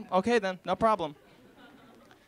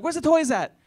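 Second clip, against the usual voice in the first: put-on little kid voice; 9 semitones higher, 7 dB louder than usual. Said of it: "my brother's like".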